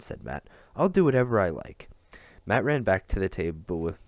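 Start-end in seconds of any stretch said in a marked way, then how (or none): 0.8-1.9 loud, higher defiant retort; a girl refusing to obey, shouting. A narrator's reading. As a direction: hurl it back at him, stubborn.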